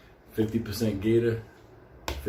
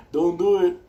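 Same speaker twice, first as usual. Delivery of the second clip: loud, higher shouted warning; warning shout again; 7 semitones higher, 7 dB louder than usual. Retold or imitated. Shouting at people in the vaccine line, a loud warning. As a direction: yell it across to them. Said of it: "I'm like that".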